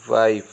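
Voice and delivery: वाइफ with no final vowel; taught reading. Shown as a demonstration. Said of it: "क्या बोलते हैं?". (वाइफ को नीचे सुर में बोलें)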